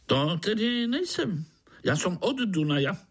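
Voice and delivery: high, quick grinning mosquito. A narrator's reading. Grinning mosquito explains his greeting to Pája. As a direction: play a buzzy high-pitched mosquito.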